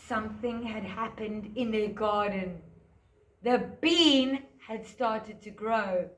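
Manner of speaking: put-on lively storytelling for small children; story narration. A narrator's reading. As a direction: tell it like a picture-book story to a class. Teacher tells Jack story.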